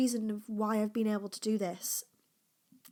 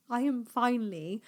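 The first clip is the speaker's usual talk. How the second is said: laughing; 2 semitones higher than usual. Real, not acted. Laughing at her own big news.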